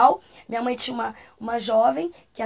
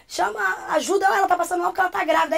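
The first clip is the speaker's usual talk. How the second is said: rushed, higher-pitched plea; retold alarm, words tumbling fast; urgent call for help; 5 semitones higher, much faster than usual. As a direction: act out hurriedly calling for help.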